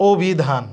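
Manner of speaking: "অভিধান" as "o-bhi-dhan", starting on rounded "o"; o-like first vowel. Shown as a demonstration. Teacher applying the rule, "অভিধান" said "obhidhan". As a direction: begin "অভিধান" with a closed "o". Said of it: "ও এর মতো করতে হবে".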